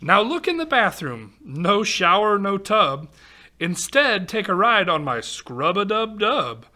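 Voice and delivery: lively singsong storybook read-aloud; reading to children. Acted. Reading a rhyming picture book aloud to kids, lively storytelling. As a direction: read the rhyme to a young audience.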